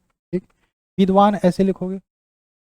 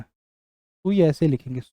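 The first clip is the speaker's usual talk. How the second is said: slow dictation; 3 semitones lower, 4 dB quieter, much slower than usual. Shown as a demonstration. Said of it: "ये आपका सही है".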